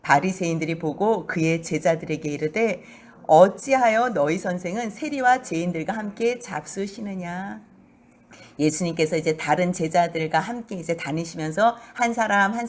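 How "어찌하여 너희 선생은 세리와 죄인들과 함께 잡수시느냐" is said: sneering. Acted. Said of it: "뭐라고 비아냥거리냐면요".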